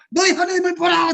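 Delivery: loud preacher's cry; shouted proclamation. Shown as a demonstration. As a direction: lift your voice and cry it out. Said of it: "소리를 높여서".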